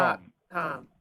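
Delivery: deep pitch shifted. Pretend. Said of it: "a voice changer".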